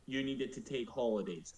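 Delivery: incredulous what do you mean; retold disbelief. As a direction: ask it in mock shock. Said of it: "I'm like".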